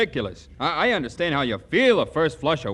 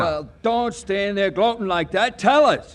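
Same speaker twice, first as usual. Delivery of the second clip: eager demand; 3 semitones higher than usual. Acted. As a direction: push him to spill it. Eager pals demand the news.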